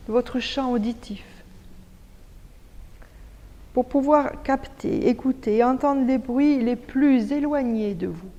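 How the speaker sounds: measured yoga nidra guide voice with long pauses; guided meditation. Acted. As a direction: lead them calmly into stillness, phrase by phrase. Guide l'écoute des bruits. (voix posée de méditation guidée)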